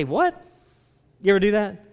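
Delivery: high, rising disbelief; incredulous response. Shown as a demonstration. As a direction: react to something absurd. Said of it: "only thing you can do as a response".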